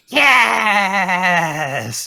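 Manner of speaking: high, loud excited shout; excited yes. Acted. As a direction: shout it with glee. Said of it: "Sneakily just says".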